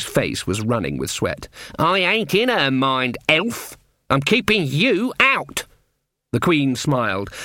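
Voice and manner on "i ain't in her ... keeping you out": rising, strained defiance; strained old witch. A narrator's reading. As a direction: push back hard, voice climbing. Granny strains against the Queen.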